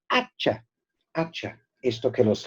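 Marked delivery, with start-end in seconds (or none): 0.1-0.6 HA-cha, weight on the opening vowel; stressed first syllable. Shown as a demonstration. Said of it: "Nota la pronunciación".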